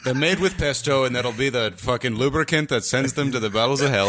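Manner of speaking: attempted Irish brogue; Irish accent. Host joining the toastie tale with an attempted Irish accent. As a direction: take up the tale in mock Irish. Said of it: "a better German accent than Joe".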